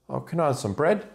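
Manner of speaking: high, innocent duck asking. Acted. Duck asking the barman, high and innocent. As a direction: chirp it up high like a hopeful duck. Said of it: "And he goes".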